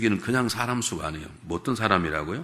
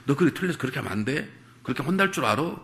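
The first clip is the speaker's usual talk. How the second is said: mock scolding parent; 4 semitones higher, faster than usual. Parent scolding child, mocked.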